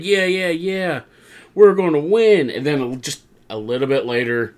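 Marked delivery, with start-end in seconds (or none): 0.0-2.5 high, cheering imitation of a hyped team; rally the team with raised pitch; playfully pumped-up team chant; mock team hype. Acting out the team's hype.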